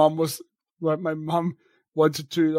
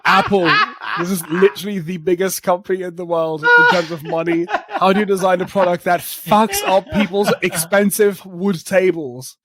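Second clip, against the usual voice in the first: laughing rant; 3 dB louder than usual. Retold or imitated. Exasperated quote while laughing.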